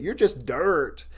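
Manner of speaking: imitated Southern drawl, slowly drawn out; slow mock-Southern delivery; Southern accent. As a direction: do your mentor's Southern accent, stretching the words. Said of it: "said it with his awesome Southern accent".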